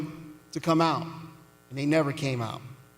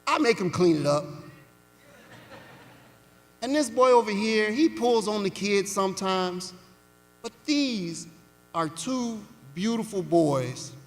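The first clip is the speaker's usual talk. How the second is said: sweet Southern dialect. Retold or imitated. Foster mother reassuring the caseworker, lightly in Southern dialect. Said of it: "in her sweet Southern dialect".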